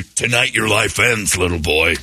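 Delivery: a hint of a ninety-eight-year-old witch. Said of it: "ninety-eight-year-old witch".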